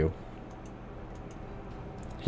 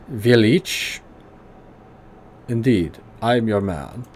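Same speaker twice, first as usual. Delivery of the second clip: put-on gruff German accent, pitched higher; 3 semitones higher, slower than usual. Old tinkerer greeting the player in a higher gruff German accent. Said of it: "high German voice".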